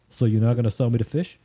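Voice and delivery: imitated Jersey customer, questioning; Jersey accent. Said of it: "give my best Jersey accent".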